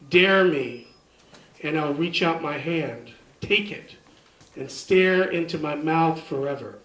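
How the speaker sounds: deliberate poetry reading with spaced phrases; poem recital. Acted. Poet reads The White Witch Responds, measured recital. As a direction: recite it line by line, pausing between commands.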